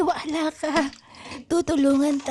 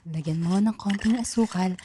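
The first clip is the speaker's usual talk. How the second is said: put-on low, kindly old granny; old grandmother voice; 8 semitones lower than usual. Grandmother advising her child, low old voice. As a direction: speak as the wise old grandmother.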